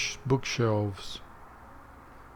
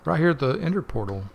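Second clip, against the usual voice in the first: announcer voice; 5 semitones higher, 6 dB louder, faster than usual. Real, not acted. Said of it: "announcing the portal again".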